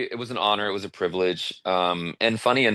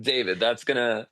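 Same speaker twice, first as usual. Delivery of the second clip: put-on Russian accent; 4 semitones higher than usual. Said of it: "in his Russian accent".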